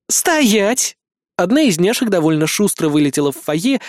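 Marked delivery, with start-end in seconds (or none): 0.1-1.0 commanding. A narrator's reading. Girl chases fleeing man.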